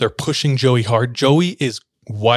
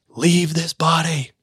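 higher, slower mock scream; 5 semitones higher, slower than usual. Pastor rubbing Joey's neck, mock screaming at the demon. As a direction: cast the demon out, pitched up. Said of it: "screaming at the top of their lungs".

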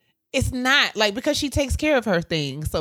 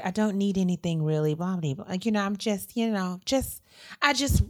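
lightly mimicked motherly reassurance; lightly voiced mother; 3 semitones higher than usual. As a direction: play down your needs like a mother. Mimics mother insisting she needs nothing.

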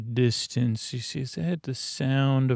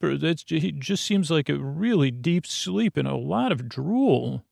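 slightly raised, fussing and questioning; lightly voiced fussy prisoner; 3 semitones higher, faster than usual. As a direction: fret over the drooling guard. Prisoner fretting over guard.

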